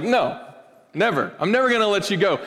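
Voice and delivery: lightly voiced haughty pharaoh, quick on the last line; a hint of a scornful king on his throne; mock-dismissive refusal; Yul Brynner's Pharaoh. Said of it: "Yul Brynner ... he's like".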